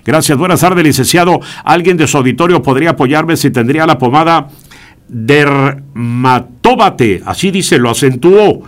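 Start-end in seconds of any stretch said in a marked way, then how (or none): 5.1-7.2 Dermatóbate read very slowly, syllable by syllable; slow spelling out. Shown as a demonstration. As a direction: sound out Dermatóbate carefully. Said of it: "está acentuada la palabra".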